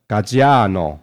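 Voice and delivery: "Gaggiano" with a long, drawn-out stressed "a"; slow "Gaggiano", leaning on the long "a"; Italian pronunciation. Shown as a demonstration. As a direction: draw out the middle of "Gaggiano", Italian-style. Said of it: "我现在可以念得比较好".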